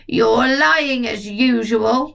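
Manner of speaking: put-on slow, scolding old woman; grandma yelling. Grandma yelling down at George, slow and scolding. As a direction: drag out the accusation. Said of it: "Grandma yelled".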